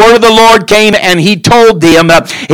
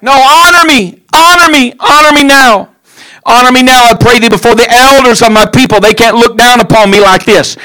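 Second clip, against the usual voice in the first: higher, insistent begging; desperate Saul; 3 semitones higher than usual. Acted. Saul pleading before the elders of Israel, high begging. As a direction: keep begging, pushing for honour. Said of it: "he begins to cry even louder".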